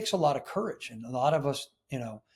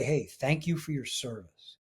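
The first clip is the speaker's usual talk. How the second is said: softer, sincere thank-you from the heart; heartfelt thanks; 6 dB quieter than usual. Shown as a demonstration. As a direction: say it quietly and mean every word. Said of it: "if you really come from here".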